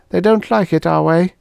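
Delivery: put-on Venusian girl. Venusian girl telling Helen she always walked away.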